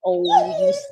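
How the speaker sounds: sudden high squeal at the dog; surprised squeal. Real, not acted.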